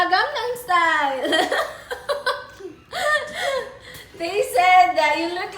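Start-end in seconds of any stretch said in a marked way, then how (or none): 1.3-4.1 high burst of laughter; laughing. Real, not acted. Laughing at Korean look.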